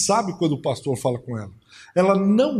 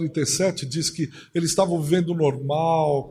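normal talking voice

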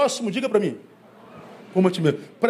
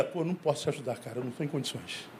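weary mumble; 8 semitones lower, 13 dB quieter, faster than usual. Acted. Pastor acts out declining help.

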